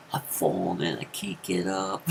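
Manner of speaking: commercial quote. Retold or imitated. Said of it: "those commercials".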